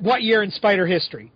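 flat, abrupt question from the caller; blunt caller quote. Retold or imitated. Co-host's late-night call, quoted bluntly. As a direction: toss it off with no hello. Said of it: "the thing I get".

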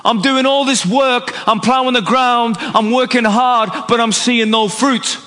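lightly voiced fed-up grumble; frustrated farmer. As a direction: moan like a worn-out farmer with nothing to show. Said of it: "he's gonna be frustrated".

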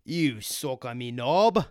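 loud, stumbling fake Irish brogue; mock Irish accent. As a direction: sputter insults in a hammed-up Irish accent. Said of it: "Bro, that was, like, Irish".

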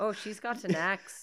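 lightly faked Irish lilt; Irish accent attempt. Friend narrating the film plot, mock Irish accent. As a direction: try an amateur Irish accent. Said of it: "tried to talk in an Irish accent".

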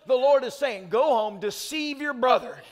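preaching that builds to a shout; mock preacher. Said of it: "imagine if you came to church and my message was".

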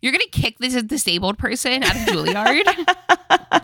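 mock-indignant Mia, laughing through it. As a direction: play Mia pleading her case half laughing. Mia voiced defending herself mockingly.

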